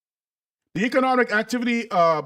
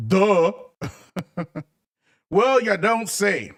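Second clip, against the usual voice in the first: sarcastic; slower than usual. Acted. Mocks the obvious with fake surprise.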